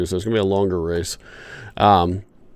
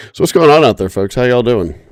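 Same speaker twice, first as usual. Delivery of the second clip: hoarse voice; 3 semitones higher, 5 dB louder than usual. Real, not acted. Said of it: "my voice sounds a little bit weird right now".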